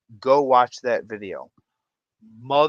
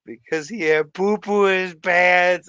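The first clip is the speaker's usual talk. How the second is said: laughing through the punchline; 4 semitones higher, 7 dB louder than usual. Retold or imitated. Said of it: "He goes".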